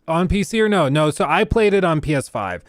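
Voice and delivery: speaking while gagging slightly; choking throat. Real, not acted. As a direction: voice catching in throat. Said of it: "I keep choking on my throat".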